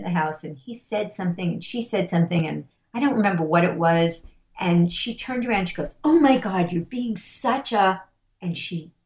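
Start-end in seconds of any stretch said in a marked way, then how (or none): 6.0-8.0 put-on exasperated teenage outburst. Daughter turns on her patient father, retold exasperated outburst. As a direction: imitate a fed-up teenager erupting.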